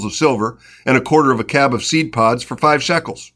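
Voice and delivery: lively, steady Bible narration; scripture reading. A narrator's reading. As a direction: read the story aloud, lightly animating the dialogue. Reads scripture aloud.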